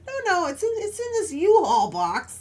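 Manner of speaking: high-pitched mock husband reassurance; imitating reassuring husband. Wife mimics husband calming her panic, lightly dismissive.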